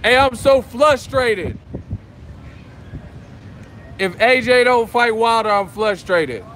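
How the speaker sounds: loud, high mock-frustrated boxer impression; hammed-up, slow, about-to-cry complaint; Wilder. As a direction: impersonate a whiny fighter at full volume. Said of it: "Best Wilder impersonation".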